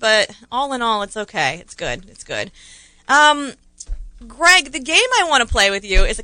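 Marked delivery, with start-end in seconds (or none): 1.0-2.5 mock sad. Real, not acted. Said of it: "which makes me kinda sad".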